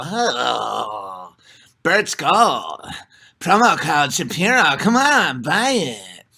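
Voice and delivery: hammed-up caricature voice, drawn-out low opening; put-on mock sales-pitch voice, words stretched; mocking caricature of Jews. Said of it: "that's how Jews sound to me".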